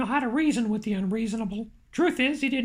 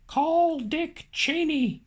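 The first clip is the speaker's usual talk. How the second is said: insistent; 3 semitones higher, much slower than usual. Acted. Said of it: "Hamish insisted".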